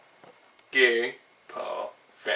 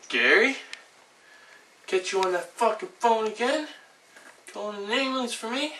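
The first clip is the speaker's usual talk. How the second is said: angry yell; 11 semitones higher than usual. Acted. Grabbing Gary by the neck, yelling at him furiously. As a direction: bellow it at him like you'll throttle him.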